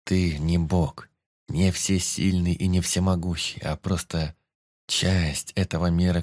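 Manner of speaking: a celestial gently comforts the grieving hero; gentle voice. Acted. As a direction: soothe him like a kind elder. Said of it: "Ласковый голос небожителя".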